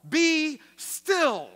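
loud, high command to the storm; commanding call. Acted. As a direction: shout it down at the storm.

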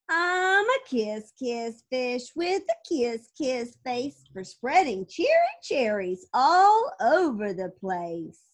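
sing-song it like a delighted fish; cheery kiss fish. Acted. Fish proclaiming his new cheer, slow happy chant.

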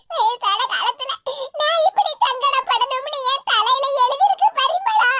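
tearful lament over one's fate; weepy, halting self-pity; crying. Acted. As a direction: sob between phrases, grieving. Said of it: "எதுக்கு இப்படி அழுத".

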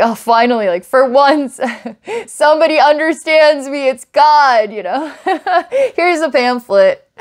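high, laughing mock-overjoyed voice, giggling through it; mock gushing relief. Joking to viewer about feeling understood by God, laughing mock gush. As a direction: gush like someone finally understood, then hand over a pamphlet. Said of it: "But it's like".

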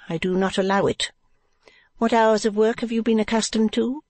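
high-pitched proprietress; Madame Mantalini. Acted. Wife addressing the new girl, high character voice.

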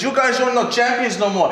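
a mocking German accent, half laughing; lightly mocked German accent. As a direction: imitate Schmidt's German accent. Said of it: "you do that voice real well".

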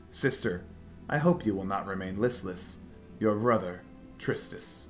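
theatrical rhyming recitation; dramatic letter reading. Acted. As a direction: read the letter like a stage poem. Reads character's rhyming letter.

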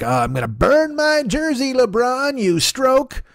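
angry sports fan. Retold or imitated. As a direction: whine like a betrayed fan on the news. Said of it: "they're like".

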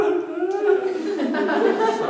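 high-pitched mock wail; imitated child's crying. Dad hears daughter crying at night, mock wail. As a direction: imitate a small girl wailing from next door. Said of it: "his sister's crying".

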